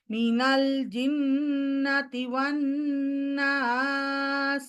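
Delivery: মিনাল জিন্নাতি ওয়ান নাস sung with a rising tune; with melody. Shown as a demonstration. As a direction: add a melody over the phrase. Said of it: "এখানে সুর দিই". (সুর দিয়ে পড়া)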